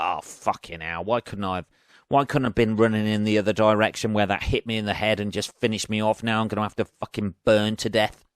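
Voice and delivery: low, muttered self-pity of a man trapped by lava; trapped despair. Pretend. Imagining himself pinned under a boulder as lava nears, low resigned grumble. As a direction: grumble it low and resigned, a touch mock-tragic. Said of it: "And I'd be like".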